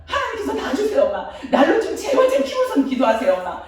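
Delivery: imitating angry son. Son pleading with his praying mother, high and pushy. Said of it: "너무너무 화를 내는 거예요".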